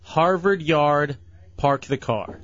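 HARVARD YARD, park the car, slowly with full r's. Shown as a demonstration. Host feeds guest a test phrase, measured with full r's. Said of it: "say this".

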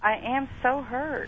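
mildly sarcastic, understated; dry mock-wounded remark. Real, not acted. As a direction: claim hurt without meaning it. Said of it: "That sounded sarcastic".

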